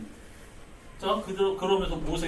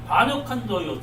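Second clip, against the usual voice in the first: angry rebuke; 4 dB louder than usual. Acted. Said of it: "승질이 확 난 거죠".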